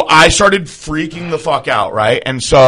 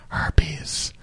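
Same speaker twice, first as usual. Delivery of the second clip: a hushed, breathy whisper so nobody else hears; secretive whisper at the clinic desk; 12 dB quieter than usual. Retold or imitated. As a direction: whisper it, embarrassed. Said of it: "and I whispered".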